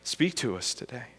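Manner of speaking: low, hushed prayer to God. Real, not acted. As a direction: pray softly, pitched well below preaching voice.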